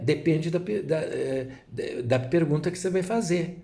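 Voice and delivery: ordinary talk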